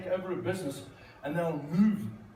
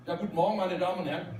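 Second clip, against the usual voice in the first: German pilot; faster than usual. Retold or imitated. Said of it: "the captain comes on".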